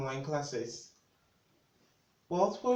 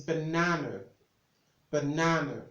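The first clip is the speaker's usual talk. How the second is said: "banana" with the middle syllable stressed, ba-NA-na; stress shown. Shown as a demonstration. Tutor after explaining the stress mark, stressed pronunciation. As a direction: demonstrate "banana", landing on NA. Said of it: "where the stress is".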